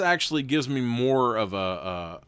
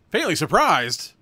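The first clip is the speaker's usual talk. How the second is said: a higher, louder, slowed echo of the book's words; drawn-out incredulous repeat; mock surprise; 8 semitones higher, 9 dB louder, slower than usual. Real, not acted. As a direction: throw the phrase back in amused disbelief. Mocks the book's phrase.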